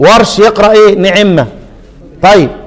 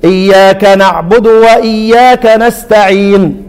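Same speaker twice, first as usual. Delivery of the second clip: imitating the prayer leader; much slower than usual. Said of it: "يقول لك إيه؟".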